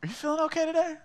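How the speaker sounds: high, pointed friend voice through laughs; friend's blunt hidden meaning, lightly played; imitating blunt friend. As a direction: voice the friend calling him out, laughing. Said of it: "his way of saying".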